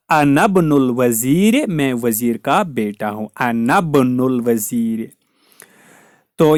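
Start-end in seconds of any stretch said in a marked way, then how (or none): 0.1-1.7 "अनबनुल वजीर" slowly joined, alif of ibn silent; linked reading. Shown as a demonstration. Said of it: "इब्न यहाँ पे बीच में हो". 3.4-5.1 "अनबनुल वजीर" slowly joined, alif of ibn silent; linked reading. Shown as a demonstration. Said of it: "इब्न यहाँ पे बीच में हो".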